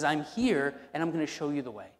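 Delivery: a hint of a commanding Lord; firm call. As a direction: announce I'm here with confident force. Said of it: "He comes along and says".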